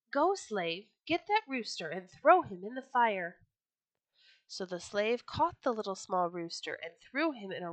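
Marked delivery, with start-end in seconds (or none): 0.1-3.4 angry order. Acted. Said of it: "He called a slave and said".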